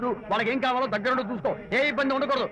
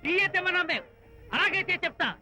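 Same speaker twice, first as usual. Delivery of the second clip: angry scolding; 4 semitones higher than usual. Acted. Host scolds servant over coffee.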